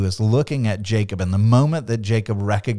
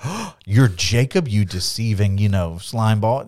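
mock disgust. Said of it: "his heart is not to go".

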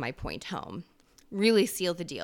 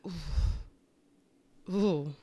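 shivery ooh; 3 semitones lower, 5 dB quieter than usual. Real, not acted. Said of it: "Gives me chills".

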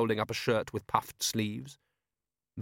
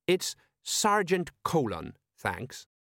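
slow, pointed correction; stiffly insistent; 6 semitones higher, slower than usual. Acted. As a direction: put him in his place. Colon insisting on rank.

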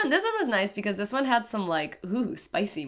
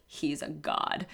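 slow, softer mock-reverent line; corny movie dialogue; 4 semitones lower, 7 dB quieter, slower than usual. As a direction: deliver it like cheesy film dialogue, slowly. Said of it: "always that corny dialogue".

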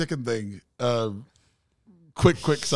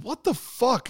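mock shock; 11 semitones higher, slower than usual. Shocked at chairs in hallway.

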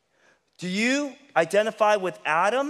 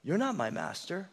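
quiet declaration; 6 dB quieter than usual. Shown as a demonstration. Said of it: "you must declare".

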